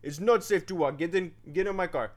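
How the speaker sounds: lightly attempted German accent. Stranger warning walkers off a dangerous road, awkward German accent. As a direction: have a half-hearted go at a German accent. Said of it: "know how to do a German accent".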